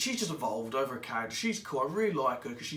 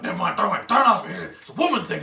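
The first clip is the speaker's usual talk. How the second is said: brushing him off; 5 semitones higher, 12 dB louder, faster than usual. Retold or imitated. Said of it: "they're like".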